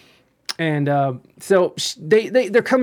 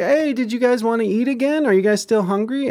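high-pitched caretaker asking kindly; retold friendly offer; 8 semitones higher than usual. Care worker offering food to residents, retold friendly offer. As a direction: imitate chirping an offer to the elderly, pitched up.

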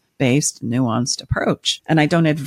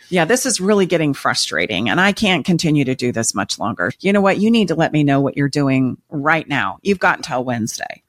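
controlling demand. Acted. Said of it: "that's the control version".

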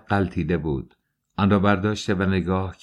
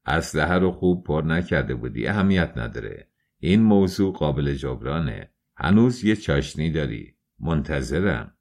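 lower, unhurried goading villain; cool goading; 4 semitones lower than usual. Acted. Svidrigailov calmly dares Dunya to reload, low and cool. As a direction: coax her to fire again, unbothered.

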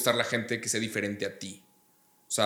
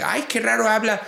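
mocking snob voice; 10 semitones higher than usual. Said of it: "entiendo por qué le hicieron meme".

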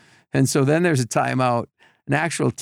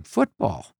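higher, puzzled customs officer asking; surprised officer; 6 semitones higher than usual. Retold or imitated. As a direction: play the confused official.

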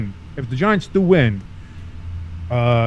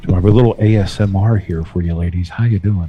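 sultry voice; 6 semitones lower than usual. Pretend. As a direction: purr it like a late-night DJ. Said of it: "I do have quite the sultry tone".

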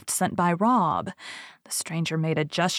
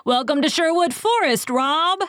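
high, loud hearty greeting; joyful welcome; 9 semitones higher, 4 dB louder than usual. A narrator's reading. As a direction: welcome him with a cheer. Outlaws greet Rob gladly.

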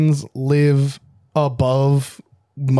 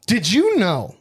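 announcer voice; 5 semitones higher, slower than usual. Pretend. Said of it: "I don't know why I'm doing that".

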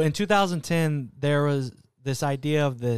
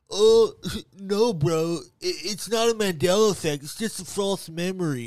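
mocking random skeptic; 3 semitones higher than usual. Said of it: "just some random people are like".

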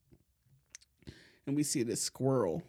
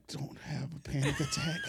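softer, tense self-talk with a laugh; restrained self-coaching; 7 dB quieter than usual. Retold or imitated. Teller telling himself to stay calm, muttered half-laughing. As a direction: mutter it to yourself, barely holding on.

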